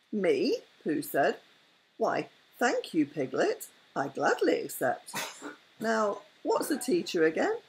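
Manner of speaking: gentle bedtime read-aloud with character voices; story narration. A narrator's reading. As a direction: tell it like a bedtime story to a grandchild. Grandmother reads Winnie the Pooh.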